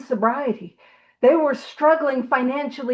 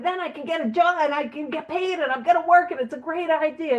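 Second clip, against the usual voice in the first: higher, running-on list of selling points; rambling enthusiasm; 5 semitones higher than usual. Retold or imitated. Bill pitches to a lost room, rambling hopefully. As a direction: imitate someone chattering on hopefully.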